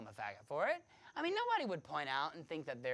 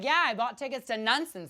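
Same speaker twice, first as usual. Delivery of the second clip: excited stepmother; 9 semitones higher, 14 dB louder than usual. Retold or imitated. Stepmother announcing show tickets.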